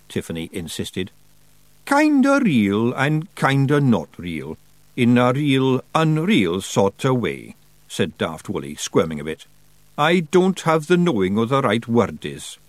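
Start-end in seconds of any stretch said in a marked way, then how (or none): 1.9-7.6 high Scots pixie voice, slow and hopeful; a wee Scots pixie begging to keep a pet; Feagle voice. Acted. Feagle voice held. 10.0-12.6 a wee Scots pixie begging to keep a pet; Feagle voice. Acted. Feagle voice held.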